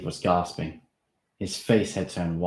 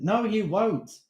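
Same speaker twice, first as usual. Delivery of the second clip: calm; 4 dB louder, slower than usual. Acted. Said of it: "I said calmly".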